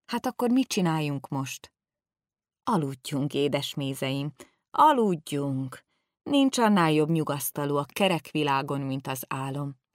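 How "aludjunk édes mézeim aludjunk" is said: soothing. Acted. Old man slowly lulling the two boys to sleep. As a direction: ease them gently toward sleep.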